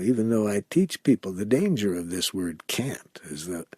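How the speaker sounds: usual speaking voice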